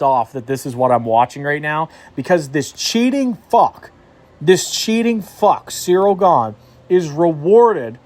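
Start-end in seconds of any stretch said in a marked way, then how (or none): 2.5-8.0 high, slow contemptuous spit; seething contempt, drawn out; disgusted sneer. Real, not acted. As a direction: sneer the insult out slowly. Ranting about cheating fighter.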